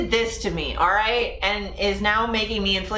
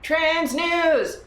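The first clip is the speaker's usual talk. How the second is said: excited announcement; 8 semitones higher than usual. Real, not acted. Announcing segment.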